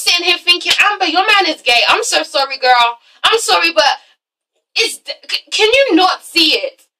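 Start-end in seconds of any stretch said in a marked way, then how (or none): 0.8-5.5 exasperated plea. Acted. Imagined plea to Amber about her man. 5.5-6.9 slow, raised-pitch incredulous question; exasperated plea. Acted. Pleading with Amber, first take.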